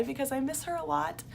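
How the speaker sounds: soft, choked-up near-whisper; fighting back tears while gushing; getting teary. Real, not acted. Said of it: "makes me wanna cry".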